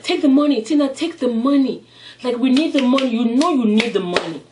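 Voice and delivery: urgent pleading. Retold or imitated. Boyfriend urging Tina to accept.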